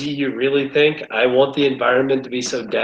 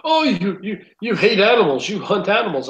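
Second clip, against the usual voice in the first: high, whiny mock of critics; mocking quote; 8 semitones higher than usual. Hunter mocking anti-hunting critics in a whiny voice. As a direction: sneer it like a preachy critic. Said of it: "They're like".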